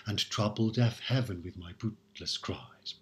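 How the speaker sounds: "heaven" said in full, hea-ven; heaven as two syllables. Shown as a demonstration. Teacher settling on the two-syllable "heaven". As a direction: give "heaven" both syllables. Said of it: "so we might as well pronounce it".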